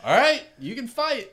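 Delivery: high-pitched referee waving it on; mock referee call. Ref lets a dazed fighter continue, high mock call. Acting the ref's go-ahead.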